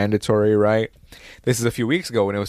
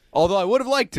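cheeky aside; 9 semitones higher, faster than usual. Real, not acted. Aside after listing insults.

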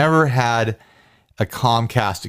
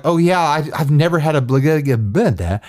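garbled gibberish. Retold or imitated. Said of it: "gibberish, like, baby talk".

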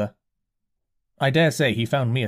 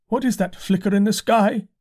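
dazed curate; 9 semitones higher, 3 dB louder than usual. A narrator's reading. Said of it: "he asked abruptly".

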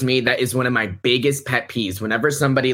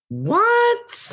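very high shocked what; stunned what. Real, not acted. Cohost reacting to shocking gossip, stunned. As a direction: gasp it out in disbelief.

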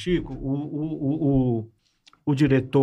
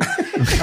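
sudden high laugh, no words; high burst of laughter. Real, not acted. Comedian laughs at his own story about a band, a high burst of laughter.

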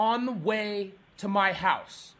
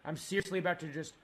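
low, quiet, seething threat; simmering fury; 7 semitones lower, 7 dB quieter than usual. Real, not acted. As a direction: hold real rage down in a low voice. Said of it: "I am furious".

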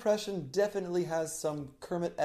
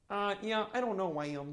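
Kermit filler words; 4 semitones higher, 9 dB quieter than usual. Shown as a demonstration. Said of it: "throw filler words".

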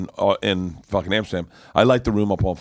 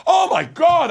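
much higher and louder mock exasperation; hammed-up disbelieving groan; exasperated; 6 dB louder, slower than usual. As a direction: scoff like he asked something stupid. Host exasperated at his question.

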